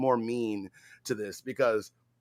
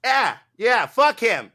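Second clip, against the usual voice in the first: higher, louder mock cheer; girlfriend's jeer; 10 semitones higher, 10 dB louder, slower than usual. Streamer voices the ex-girlfriend siding with them, loud mock cheer. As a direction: toss it off loud and gleeful. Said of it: "she was like".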